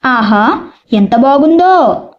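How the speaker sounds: slow, drawn-out admiring exclamation; mild exclamation of wonder. Shown as a demonstration. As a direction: demonstrate a wondering exclamation, unhurried. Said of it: "ఇట్లా ఆశ్చర్యార్థకం". (తేలికపాటి ఆశ్చర్యంతో సాగదీస్తూ)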